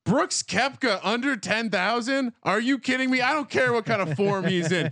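high, fired-up hype; excited. Real, not acted. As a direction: sell the pick with big excitement. Hyping his favorite pick.

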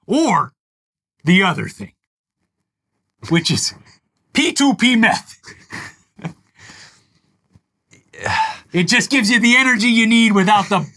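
oversell the product with a chuckle; mock Mike Lindell pitch. Host parodies the CEO selling beans and meth, lightly voiced. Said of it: "I'm with Comrade Mike on this".

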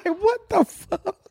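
slow, drawn-out shocked quote. Retold or imitated. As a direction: stretch out the disbelief. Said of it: "I said".

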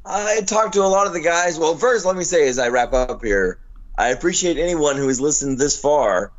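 rough, worn-out smoker's voice; hoarse from no sleep; gravelly voice. Real, not acted. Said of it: "due to my smoker's voice".

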